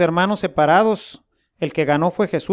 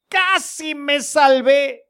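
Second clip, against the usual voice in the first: slow, drawn-out sigh of regret; sad lament; 5 semitones higher, slower than usual. Retold or imitated. The damned man sighing over his near miss, slow lament. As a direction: let it drag with regret, slowly. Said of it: "Pero qué triste diría".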